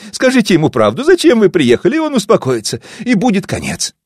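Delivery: high and loud, pleading through tears; sobbing scream. Acted. Daughter pleads tearfully with the narrator to spare her father. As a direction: beg him frantically, near hysteria. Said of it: "схватила меня за плечи и зарыдала".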